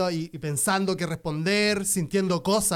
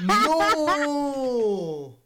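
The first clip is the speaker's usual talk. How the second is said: shocked; 7 semitones higher than usual. Real, not acted. Reacting to shocking story.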